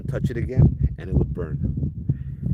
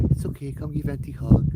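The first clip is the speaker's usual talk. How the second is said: flighty eccentric aunt; 7 semitones higher than usual. Retold or imitated. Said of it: "she's over there like".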